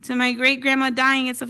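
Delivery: put-on high, loud shocked teen voices; nieces. Nieces demanding answers about grandma, high and loud. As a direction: play the outraged nieces at full alarm. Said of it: "And they're like".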